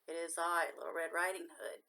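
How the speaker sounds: a lightly voiced wolf pretending to be the girl; wolf faking softness. A narrator's reading. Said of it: "trying to make his rough voice sound soft".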